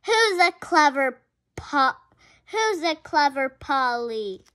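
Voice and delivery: cooing pet praise; praising a pet. Acted. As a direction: coo at the clever bird. Praising a parrot.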